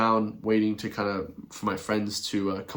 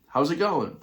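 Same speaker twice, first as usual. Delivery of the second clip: higher, cheery Irish hello again; repeated Irish greeting; 5 semitones higher than usual. Retold or imitated. To the staring stranger, the Irish greeting again. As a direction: try the Irish hi once more. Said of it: "then I said it again".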